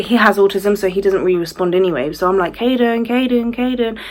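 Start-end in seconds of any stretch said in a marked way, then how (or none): 2.5-4.0 higher singsong repeated name; calling out. Retold or imitated. Mum calling her son who is not responding, high repeated call. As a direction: call a child's name for attention. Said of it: "like, calling him".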